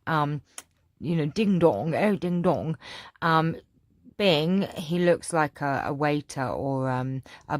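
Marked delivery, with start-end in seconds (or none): 1.3-2.8 lightly voiced posh charmer's catchphrase; a hint of a posh, suave comedy actor; Leslie Phillips. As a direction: say it like an old posh film comic. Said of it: "Leslie Phillips from Carry On".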